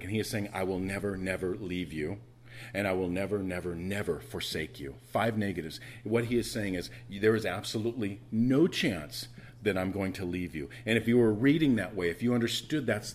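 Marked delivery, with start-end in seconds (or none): 0.5-4.9 each "never" set apart with weight; measured insistence on every "never"; emphatic repetition. Retold or imitated. Preacher voicing God's promise from the Greek, emphatic on "never". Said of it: "it's incredibly emphatic". 7.1-10.7 weight on "no chance"; firm promise, landing hard on "no chance"; emphatic. Retold or imitated. Preacher explaining what God is saying, emphatic on "no chance". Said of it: "that's the emphasis".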